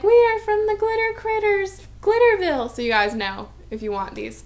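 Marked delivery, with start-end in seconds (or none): 0.0-2.7 lightly voiced, high and chirpy note reading; bubbly quote. Reading a viewer's note aloud, lightly chirpy voice. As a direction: chirp it like a cheerful little label. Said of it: "She's like".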